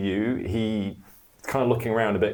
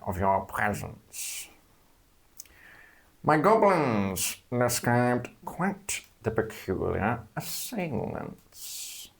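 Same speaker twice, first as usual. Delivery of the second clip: serpent voice; slower than usual. Acted. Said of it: "the serpent voice".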